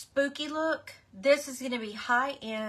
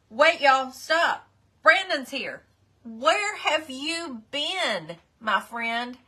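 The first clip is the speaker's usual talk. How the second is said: excited call; 3 semitones higher, 8 dB louder, slower than usual. Real, not acted. A viewer rejoins the livestream.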